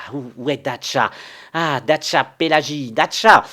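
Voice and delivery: high, loud call across the house. Acted. Panicked servant calls the maids for help. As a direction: shout for the maids.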